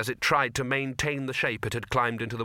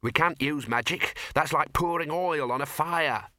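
snapped; 4 semitones higher than usual. Acted. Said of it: "snapped the dean".

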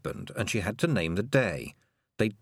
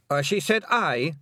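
louder, higher hurried cry over the lad; shouted; 8 semitones higher, 4 dB louder than usual. A narrator's reading. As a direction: drown Fionn out quickly. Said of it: "Rob Anybody shouted".

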